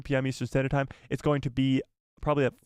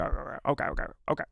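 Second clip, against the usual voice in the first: whispered okays; 4 dB quieter, faster than usual. Real, not acted. Fading okays.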